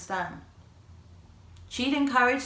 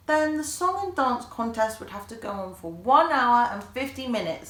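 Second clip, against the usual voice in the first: triumphant; 6 semitones higher, 5 dB louder than usual. A narrator's reading. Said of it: "said Ali triumphantly".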